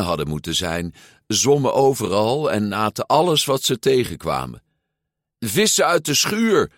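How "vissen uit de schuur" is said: high, loud call. A narrator's reading. Luca to escaped fish in the barn, calling out. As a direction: shout orders at straying fish. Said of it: "riep Luca".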